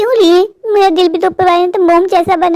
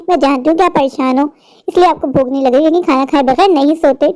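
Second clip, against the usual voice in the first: lower, gently coaxing aunt; 4 semitones lower than usual. Acted. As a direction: talk her into eating like a kind aunt. Aunt coaxing her to eat.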